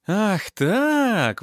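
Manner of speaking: loud, high outraged cry; indignant exclamation. A narrator's reading. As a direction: burst out, ready to strike back. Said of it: "воскликнула Зинаида". (возмущённое громкое восклицание)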